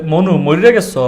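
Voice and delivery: a light Barishal accent on "মনু, মরিয়া গেছ?". Shown as a demonstration. Imitating the co-host in a Barishal accent. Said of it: "ওয়ালিয়া কি বলবে? বলবে যে".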